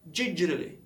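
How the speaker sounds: "Digitally" blurred into didgerly; tricky English word. Shown as a demonstration. Learner showing viewers the word he struggled with, run-together pronunciation. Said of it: "eu não sabia pronunciar isso".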